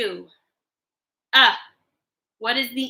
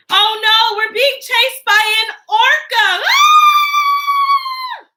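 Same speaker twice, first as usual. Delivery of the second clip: higher, louder pretend-scared shouting; mock panic; 11 semitones higher, 5 dB louder, much slower than usual. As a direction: play it like an orca is chasing you. Being chased by an orca.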